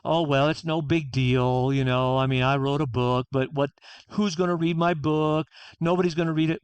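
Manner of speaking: half-hearted self-putdown; self-deprecating dismissal. Retold or imitated. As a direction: wave the praise away, downplaying yourself. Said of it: "rather than".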